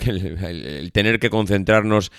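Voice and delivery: blocked nose, stuffy nasal voice. Real, not acted. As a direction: speak with a cold's blocked nose. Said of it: "esta voz nasal tan lamentable que tengo".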